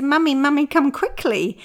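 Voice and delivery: high, loud urgent call; child calling. Retold or imitated. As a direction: call mum down in a hurry. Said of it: "She said".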